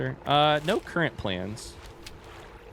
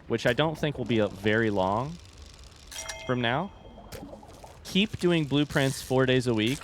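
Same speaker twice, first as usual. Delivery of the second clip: calm, even announcement. Real, not acted. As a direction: lay out the plan calmly. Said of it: "I said that in a very calm voice".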